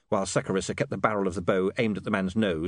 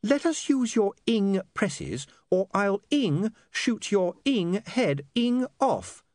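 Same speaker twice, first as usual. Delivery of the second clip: high, slow mock scream; screamed threat; 12 semitones higher, slower than usual. A narrator's reading. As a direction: shriek the threat in a high voice without full volume. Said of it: "she screamed".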